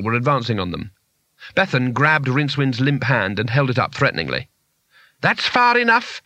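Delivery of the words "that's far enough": high, drawn-out mock scream; screamed warning. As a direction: halt them with a high-pitched cry. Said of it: "she screamed".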